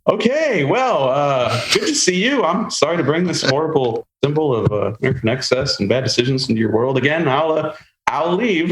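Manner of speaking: high, flustered, backing out of the room; mock-awkward high voice, bowing out; awkward retreat. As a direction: fumble an apology and edge toward the door. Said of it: "I was like".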